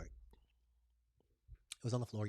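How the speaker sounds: slow breathy whisper. Real, not acted. Whispering the punchline of her remote story to viewers. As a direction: lean in and whisper it slowly.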